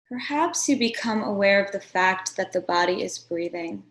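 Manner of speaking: unhurried meditation guide, long pauses between phrases; guided meditation. Acted. Meditation teacher settling listeners into a seated posture, guided meditation. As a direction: guide them gently into stillness, phrase by phrase.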